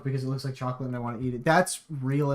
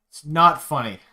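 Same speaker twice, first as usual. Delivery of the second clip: louder repeat, punching not; louder insistence; 6 dB louder than usual. Real, not acted. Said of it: "It's not funny anymore".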